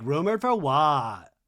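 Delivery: slow, drawn-out challenge; mock indignant question. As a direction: stretch the question out in mock disbelief. Mimicking Lisa's indignant challenge, first take.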